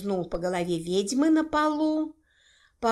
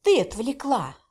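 plain reading voice

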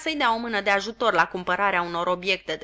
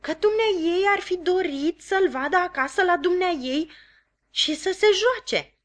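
higher, fast, courteous; polite; 10 semitones higher than usual. Acted. Joe politely trying again with his wife. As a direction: pipe up politely. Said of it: "începu iar Joe politicos".

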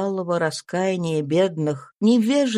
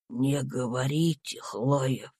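weak dying voice; 7 semitones lower, 4 dB quieter than usual. A narrator's reading. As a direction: barely breathe the words out. Dying Tom speaks.

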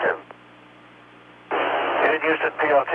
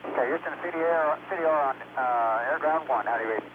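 thin, distant radio voice; talking through a helmet mic; 5 dB quieter than usual. Real, not acted. Crew voice check over helmet radio.

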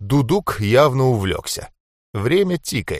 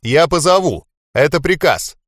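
loud order; 6 semitones higher, 3 dB louder than usual. A narrator's reading. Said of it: "И громко для Джонни".

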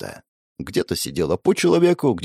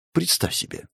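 whispered retort; 8 semitones higher, 7 dB quieter than usual. Real, not acted. Soft aside.

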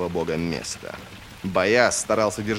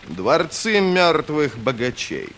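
higher, slow, declaiming guide; explaining guide; 6 semitones higher, 4 dB louder, slower than usual. A narrator's reading. Bayaz explaining the dead city to his companions, declaiming. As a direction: pronounce it slowly and weightily.

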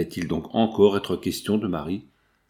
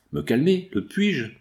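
high-pitched, agitated retort, acted; distraught protest; 6 semitones higher than usual. A narrator's reading. Father told to calm down while his child's life is at stake, distraught. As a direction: protest in a raised pitch, mildly frantic.

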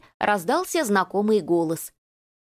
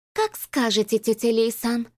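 oily cooing voice. Acted. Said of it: "Масляным голосом проворковала".

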